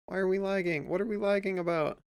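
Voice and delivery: exasperated, rushed complaint at lag; frustrated outburst. Real, not acted. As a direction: snap at the laggy program. Frustrated at lagging software.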